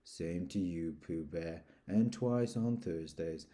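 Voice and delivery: a hint of mopey donkey; mildly gloomy; gloomily. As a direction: drag it out, resigned. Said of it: "said Eeyore gloomily".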